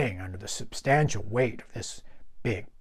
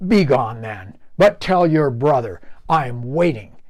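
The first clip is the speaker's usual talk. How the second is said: louder grudging troll voice; troll dismissal; 6 dB louder than usual. Acted. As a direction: send him off with a grudge. Troll sends goat off.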